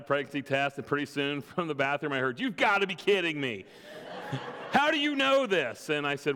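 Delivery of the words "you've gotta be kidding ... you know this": a wife calling out in laughing disbelief; amazed wife. Retold or imitated. Wife shouting from the bathroom to her husband, stunned and laughing.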